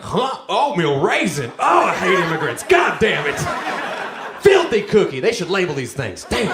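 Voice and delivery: hammed-up racist ranting at a cookie; outraged mock racist. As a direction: ham up a bigot disgusted by his cookie. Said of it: "then they're like".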